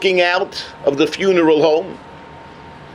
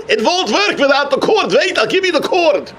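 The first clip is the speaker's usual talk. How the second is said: laughing offer; 6 semitones higher than usual. Acted. Feist offers the cord, laughing.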